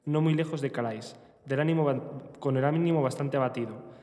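novel narration, read steadily; voz de lectura. Acted. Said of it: "Una voz cavernosa de lectura". (lectura de novela en voz alta)

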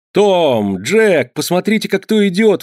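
suddenly spotting someone and calling his friends over; excited exclaim. A narrator's reading. Fred calls Tom and Jack to look, excited. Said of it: "воскликнул вдруг Фред".

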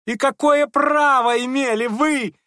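piercing unnatural high squeal. A narrator's reading. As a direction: screech it in a strained false voice. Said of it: "завизжал самым неестественным голосом".

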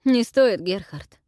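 amused, cut-in dismissal; with a chuckle. A narrator's reading. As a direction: wave him off with a smirk. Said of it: "издал смешок Нейт".

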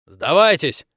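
loud call to surrender; commanding soldier's yell; shout. Acted. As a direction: bark it out from cover. Old soldier shouting from doorway.

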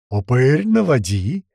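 loud, joyful call to aim; gleeful yell. A narrator's reading. Kotleta tells his gunner to aim, yelling happily. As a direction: holler it with glee. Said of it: "радостно завопил Котлета".

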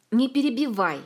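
sharp shout. A narrator's reading. The queen snaps at Ilmar to stop interrupting. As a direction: cut him off with a shout. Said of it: "прикрикнула королева".

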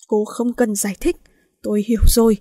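cold angry man, each word bitten off; words ground out one by one. Acted. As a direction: grind out every word in cold fury. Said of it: "hắn gằn từng chữ".

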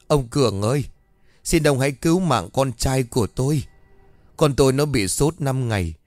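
wailing plea. Acted. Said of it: "liền gào lên van xin".

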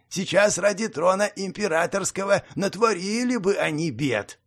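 lightly voiced sneering goblin; nasty nasal goblin sneer. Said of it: "ехидно поинтересовался".

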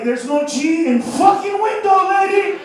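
exasperated yell. Retold or imitated. Randy exasperated.

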